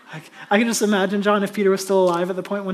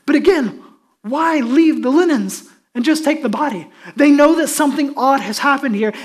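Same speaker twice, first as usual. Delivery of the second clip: preach; 5 semitones higher, 7 dB louder than usual. Real, not acted. Preaches at full force.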